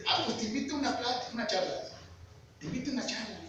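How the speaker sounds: put-on light Chihuahua accent, friendly invitation. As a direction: invite him in a hint of a northern Chihuahua accent. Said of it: "Acento así de Chihuahua".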